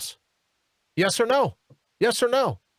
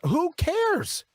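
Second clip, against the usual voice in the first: dismissive; 11 semitones higher than usual. Real, not acted. Dismissive high exclamation.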